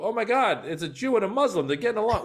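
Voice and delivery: high, loud mock amazement; excited outburst. Comedian retelling his own stage reaction, high and loud with amazement. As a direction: gasp it out like you can't believe it.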